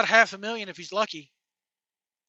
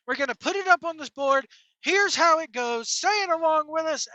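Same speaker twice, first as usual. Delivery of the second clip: hype announcer; 2 semitones higher than usual. Pretend. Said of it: "I'd be like".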